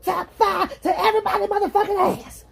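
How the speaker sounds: fast, high-pitched cussing rant; mock furious rush; acted tirade. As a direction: rattle off threats in a high voice. Acts out someone cursing out everybody.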